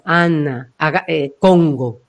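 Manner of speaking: low back placement. Shown as a demonstration. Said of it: "Uno puede sentir que está detrás".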